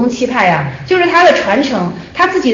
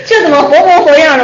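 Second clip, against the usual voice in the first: a laughing, raised question; laughing disbelief; 4 semitones higher, 4 dB louder than usual. Retold or imitated. The student laughs at the teacher's remark, amused. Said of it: "我就笑了".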